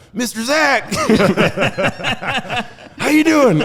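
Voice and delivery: high, loud Florida redneck holler. Acted. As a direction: greet like an over-the-top Florida redneck. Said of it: "what a true Florida redneck sounds like".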